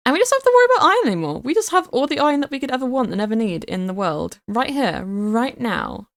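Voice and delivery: fast, high rush of delight; excited gushing. Real, not acted. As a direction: rattle it off thrilled. Gushing over iron farm.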